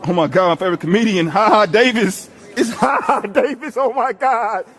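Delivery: loud gushing with laughs; hammed-up fan shouting at a lookalike; mock starstruck fan. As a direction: squeal over a celebrity. Fan spots a comedian lookalike.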